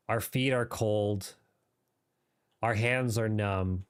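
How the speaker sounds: light British RP gaming voice; modern british accent. Pretend. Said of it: "there's my mini R P voice".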